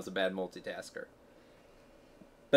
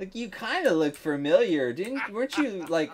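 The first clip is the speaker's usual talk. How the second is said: higher, hammed-up puzzled asking; mock innocent question; 6 semitones higher than usual. Joking along about asking someone on liposuction, mock innocent. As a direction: pretend to half-recognize someone, tactlessly.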